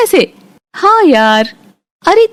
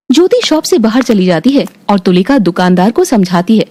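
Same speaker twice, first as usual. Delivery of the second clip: lower, even storytelling voice; story narration; 6 semitones lower than usual. A narrator's reading. Narrator telling the family story, calm and even. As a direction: narrate the scene calmly, a touch lower.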